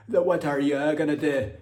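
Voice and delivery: a mock Jamaican accent slipping into Scottish; Jamaican turning Scottish. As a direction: try for Jamaican, land in a Scottish brogue. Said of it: "That's more turning into Scottish".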